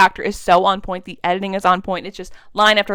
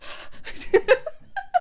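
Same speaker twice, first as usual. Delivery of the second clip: excited squeal; 4 dB quieter than usual. Retold or imitated. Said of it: "And she's like".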